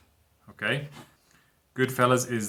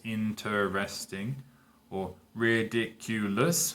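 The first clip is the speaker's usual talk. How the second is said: slowed for syllables; 4 dB quieter, slower than usual. Shown as a demonstration. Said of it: "that's four syllables".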